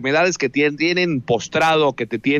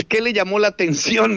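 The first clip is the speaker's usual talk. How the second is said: mildly surprised question, pitched higher; retold surprise; 5 semitones higher than usual. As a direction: imitate a woman caught a little by surprise. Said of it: "Me dice así sorprendida". (pregunta imitada, levemente sorprendida)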